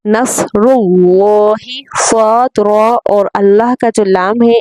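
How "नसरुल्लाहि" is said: नसरुल्लाहि with thick र and ल, slow; heavy on the र and the ल; नसरुल्लाहि said slow and full; heavy full letters. Shown as a demonstration. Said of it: "इन तीनों को पुर पढ़ने की कोशिश करें".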